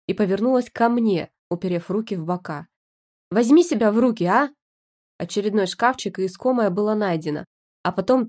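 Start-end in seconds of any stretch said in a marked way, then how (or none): 3.3-4.5 louder, sharp scolding; loud exasperated telling-off; scolding shout. Acted. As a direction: pull yourself together, shouted. Wife scolds husband.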